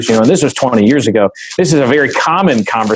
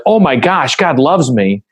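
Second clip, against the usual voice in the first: sudden high burst of wonder on oh my gosh; amazed realization; 4 semitones higher than usual. Retold or imitated. Teenager back from retreat, thrilled at discovering God's love, high excited gush. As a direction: gush it like a teen who just got it.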